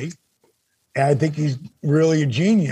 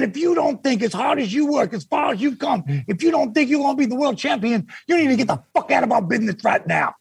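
much higher, heated imitation of Dusty; Dusty mad; 7 semitones higher than usual. Dusty chewing out Dennis on the phone, heated and higher. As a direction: lecture hard and build toward the final order. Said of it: "'cause he was mad".

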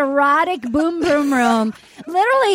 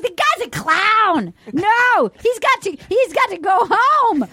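higher-pitched retold outrage; mock indignation; 5 semitones higher than usual. Castmates demand the clown go home, mock indignation. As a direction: imitate someone insisting, voice raised in pitch. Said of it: "They're like".

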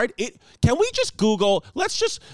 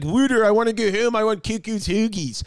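put-on Philadelphia accent. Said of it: "nail a freaking Philadelphia dialect".

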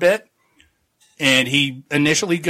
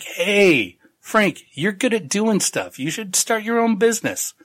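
eager foreman voice; 6 semitones higher than usual. Retold or imitated. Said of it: "He's like".

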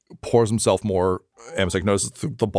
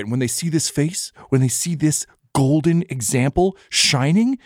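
earnest, higher-pitched speech in character; impassioned idealist; 4 semitones higher than usual. Acted. Pleading with a friend to share a dream, impassioned. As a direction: make a heartfelt case, lilting upward.

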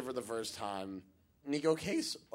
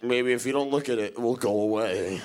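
British avoidance; 2 semitones lower, 7 dB louder than usual. Retold or imitated. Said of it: "doing the very British thing".

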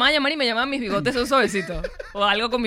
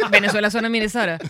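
laughing; 3 dB louder, faster than usual. Real, not acted. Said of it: "Al fin alguien me agarró ese chiste".

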